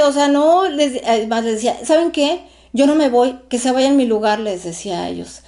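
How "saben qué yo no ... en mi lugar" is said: agitated. Retold or imitated. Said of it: "Yo estaba histérica".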